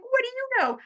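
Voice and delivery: high, giggling brush-off; laughing at her husband's praise; laughing scoff. Retold or imitated.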